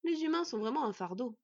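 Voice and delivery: mildly scornful aside; disdainful. Acted. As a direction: say it with haughty disdain. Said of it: "lâcha d'un ton dédaigneux".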